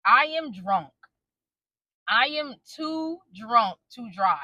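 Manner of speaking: slow, deliberate retold statement; clear telling. Wife telling husband she cannot drive, clearly and deliberately. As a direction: space the words out so he gets it. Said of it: "I clearly tell him".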